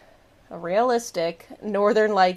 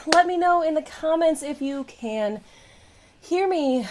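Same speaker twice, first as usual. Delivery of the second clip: out of breath; 6 semitones higher than usual. Real, not acted. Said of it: "I'm out of breath".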